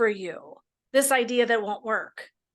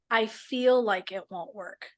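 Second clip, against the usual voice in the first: slow demo phrase; slower than usual. Shown as a demonstration. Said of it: "if I add just a couple of words".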